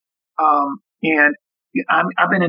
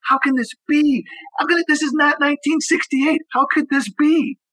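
high-pitched, aching question, no actual crying; retold tearful disbelief; 11 semitones higher than usual. Husband recalling watching the news with his wife, tearful disbelief. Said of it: "We were crying".

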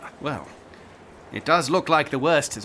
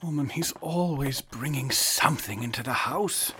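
sleepy grumble; 9 dB quieter than usual. Acted. Groggy husband half asleep.

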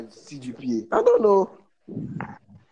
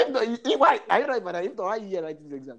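mock scolding invigilator; 5 semitones higher, 4 dB quieter, faster than usual.

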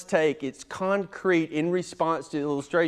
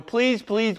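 high, whiny mock begging on "Please, please"; mock pleading; 7 semitones higher than usual. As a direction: beg in a high pitch as a parody. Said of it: "respond by going".

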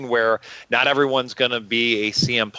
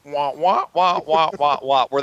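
muffled wah wah talk; 3 semitones higher than usual. Retold or imitated. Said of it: "Charlie Brown, uh, sound effects for the teachers".

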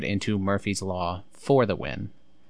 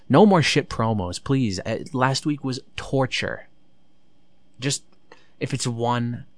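raised, louder fed-up outburst; exasperated plea; 4 semitones higher, 4 dB louder than usual. Real, not acted. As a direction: beg for it to stop, higher and louder. Pleading against more bad promos.

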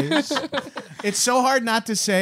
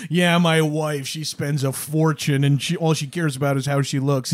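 90s stand-up comic; 2 semitones lower than usual. Retold or imitated. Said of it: "just being like".

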